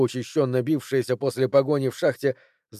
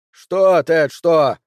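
high, loud squeaky mimic of her; mock her in a shrill squeak; high mocking mimicry; 4 semitones higher, 8 dB louder, much slower than usual. Ted mocking Cori's question, high squeaky voice. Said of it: "передразнил он её высоким песклявым голосом".

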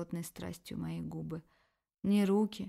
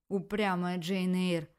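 loud, slow outcry; exclaiming; 6 dB louder, slower than usual. Acted. Shuvalov exclaiming at stubborn Tanya, loud slow outcry. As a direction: call her out, drawn out. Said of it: "снова вскричал Шувалов".

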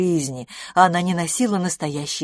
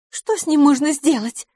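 higher, louder anxious question; agitated; 10 semitones higher, 6 dB louder than usual. A narrator's reading. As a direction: ask in a worried rush. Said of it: "взволнованно спросила". (взволнованно, выше и громче)

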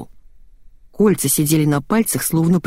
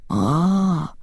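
drawn-out aah; 3 dB quieter than usual. A narrator's reading. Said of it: "протянул Олег".

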